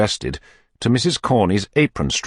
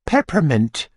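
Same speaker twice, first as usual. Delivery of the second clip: faint; 9 semitones higher, slower than usual. Acted. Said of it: "in a faint voice".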